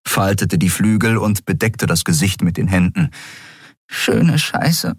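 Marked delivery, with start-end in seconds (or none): 3.9-4.9 breathy voiceless mutter; muttered curse. A narrator's reading. Nelen curses into her hands, breathy mutter.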